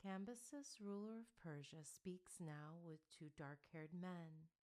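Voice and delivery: soft, musical and slow; a seer's gentle musical murmur; low, musical accent. Acted. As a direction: let it fall softly like a song. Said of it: "In a low, musical accent".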